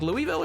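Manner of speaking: "Louisville" as LOO-ee-vil; outsider's mispronunciation. Retold or imitated. Streamer retelling the mistake, "Louisville" as LOO-ee-vil. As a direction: sound out the middle EE in "Louisville". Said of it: "apparently it's not Louisville".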